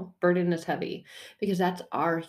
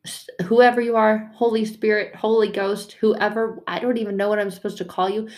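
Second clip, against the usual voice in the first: exasperated plea; 5 semitones higher, 5 dB louder than usual. Acted.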